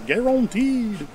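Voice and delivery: guaranteed drawn out slow and high, Louisiana style; lightly done Louisiana drawl on guaranteed; Louisiana accent. Shown as a demonstration. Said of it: "That's my Louisiana accent".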